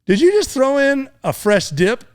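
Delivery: army guy behind him asks, voice up high; imitating army guy. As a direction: pitch it way up in disbelief. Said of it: "and he goes".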